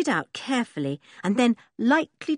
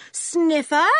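high, louder warning call; warning shout; 10 semitones higher, 6 dB louder than usual. A narrator's reading. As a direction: call him out on his sniffing. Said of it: "she shouted warningly".

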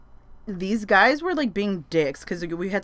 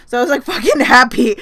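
louder, laughing through it; laughing happy; 6 semitones higher, 12 dB louder than usual. Real, not acted. Telling viewers how happy she was, laughing. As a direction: burst out laughing with joy.

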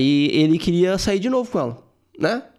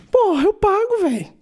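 mock boast. Bragging about paying the bill.

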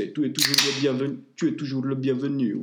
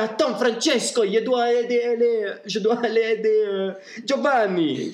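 higher, louder hurried plea; urgent; 9 semitones higher, 4 dB louder than usual. Acted. Pertighetti tells the pope he must help Giovanni, high and urgent. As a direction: rush to help the fainted boss.

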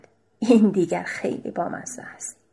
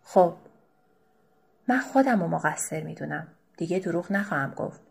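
remorseful. Acted. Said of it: "با لحن پشیمانی گفت".

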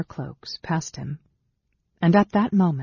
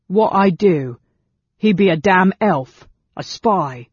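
loud, protesting goblin voice; indignant goblin; 4 semitones higher, 8 dB louder than usual. A narrator's reading. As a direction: protest and accuse as a rough goblin. Goblin protests and accuses elf.

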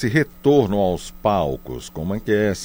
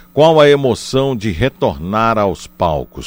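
louder repeat, each word clear; to someone hard of hearing; 5 dB louder than usual. Real, not acted. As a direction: repeat it so they catch it. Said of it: "Eu vou repetir a pergunta".

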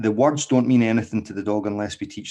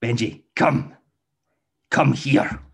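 irritated recall; 5 semitones higher, 4 dB louder, slower than usual. Shown as a demonstration. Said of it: "that change in the tone of voice".

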